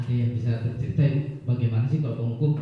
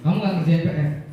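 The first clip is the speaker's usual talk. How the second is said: stern punisher; 4 semitones higher, 4 dB louder, faster than usual. Acted. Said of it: "itu penghukum ya".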